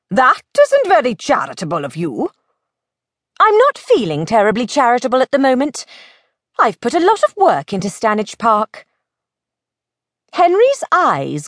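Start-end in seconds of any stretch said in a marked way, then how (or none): 0.1-2.3 mild housekeeper's scolding; gently chide, clucking disapproval; clucking reproof. Acted. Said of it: "said with a cluck". 3.4-8.8 quick, raised, grudging retort; defiant Henry, lightly voiced.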